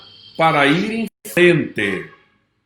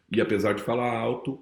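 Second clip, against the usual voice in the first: soft, lowered voice; falando baixo; 4 semitones lower, 7 dB quieter, faster than usual. Shown as a demonstration. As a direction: drop to a quiet, low register. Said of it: "também sabe falar baixo". (em voz baixa e grave)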